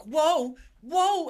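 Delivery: high-pitched mock whoa; mock stumbling whoa. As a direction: play a stagger, voice going up. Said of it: "they're like".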